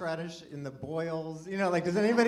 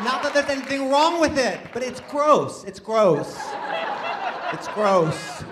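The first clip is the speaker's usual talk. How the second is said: loud, high-pitched comic protest; mock disgusted outburst; 10 semitones higher, 9 dB louder than usual. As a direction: blurt it out, hammed-up revulsion.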